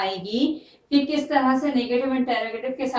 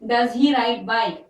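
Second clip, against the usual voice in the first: slow dictation; much slower than usual. Shown as a demonstration. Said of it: "A bike या बाइक".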